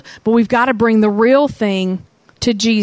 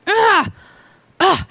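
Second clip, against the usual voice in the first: mock groan; 7 semitones higher than usual. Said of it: "what if the guy had just said".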